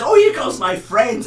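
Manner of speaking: high, slow duck voice, called out; like a ventriloquist's duck puppet. Retold or imitated. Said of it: "then the duck says".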